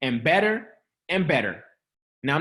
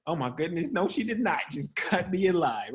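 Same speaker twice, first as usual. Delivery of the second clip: muttered under the breath, much softer; softly grumbled to oneself; under your breath; 6 dB quieter than usual. Shown as a demonstration. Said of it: "say it to yourself under your breath".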